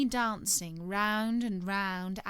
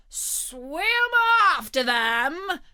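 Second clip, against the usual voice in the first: high, loud Gryphon cry; high-pitched storybook scream; 9 semitones higher, 8 dB louder, much slower than usual. A narrator's reading. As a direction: shriek the order out excitedly. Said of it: "screamed the Gryphon".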